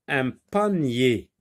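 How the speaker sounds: "Un panier" said slowly and clearly, ending on a drawn-out yé; slow model word. Shown as a demonstration. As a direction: stretch "panier" so the yé stands out. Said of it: "On entend yé".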